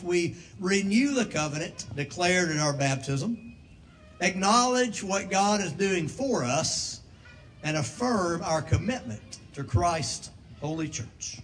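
formal liturgy read aloud; liturgical reading. Acted. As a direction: read the rite with solemn weight. Reads baptismal liturgy.

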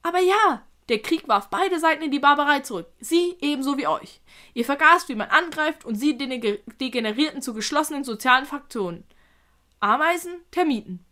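lively creature voice with punched words; lecturing spider. Acted. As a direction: explain it animatedly as the spider.

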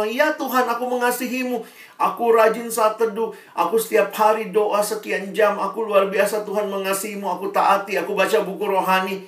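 high, eager voice of a proud believer listing devotions. Pretend. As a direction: rattle off your piety, eager and high. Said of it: "Coba kalau kamu ditanya gitu". (suara tinggi orang percaya yang bangga)

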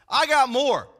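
boast. Retold or imitated. Preacher voicing Paul outdoing all rivals, boasting. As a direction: retell it as a confident one-up. Paul's boast, first take.

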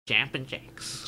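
slow foreign-accented "Jumping Jacks"; drawn-out accented take on the words. Shown as a demonstration. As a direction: say it slowly with an accent. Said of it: "if you say it with an accent".

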